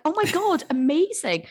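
high, gushing delight with a laugh; thrilled, laughing reply to a politician; mock excitement. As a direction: squeal it like great news. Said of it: "And I was like".

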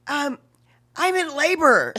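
lightly deadpan it; understated announcement. Retold or imitated. Woman in labor telling the dancers, mild deadpan. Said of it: "She goes".

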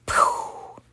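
long high puff of air; blowing sound. A narrator's reading. Trevor shows what they'll do to the creature, blowing sound. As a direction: imitate a blow-up with the breath. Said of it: "Trevor made a blowing sound".

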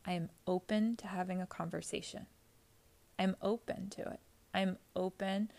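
quiet, unruffled reply with unhurried pauses; very calm. Acted. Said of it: "very calmly".

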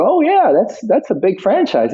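high mock Cockney voice; imitated Cockney mate; Jason Statham. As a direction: put on a Cockney accent, pitched well up. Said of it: "you know, Cockney".

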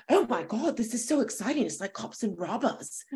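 lightly imitated British friend's accent. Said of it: "where's your British accent".

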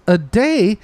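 high, slow, stretched "That's like three weeks"; incredulous off-screen voice. Retold or imitated. Imitating an off-screen beach townsperson, slow and high. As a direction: mimic a baffled townsperson dragging it out. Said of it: "somebody goes".

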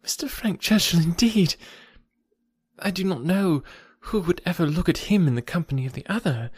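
high-pitched, flustered outpouring; upset young friend explaining herself; agitated. A narrator's reading. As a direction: protest in a hurt, lifted voice. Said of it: "in a voice nearly as agitated as Emma's".

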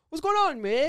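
high, hammed-up Canadian accent; mock Canadian accent. Teasing a rapper's reunion for friends, in a high mock Canadian accent. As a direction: pitch it up and ham the Canadian twang. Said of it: "they gonna roast you".

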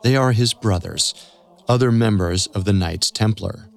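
tense documentary storytelling; story narration. A narrator's reading. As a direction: build suspense line by line.

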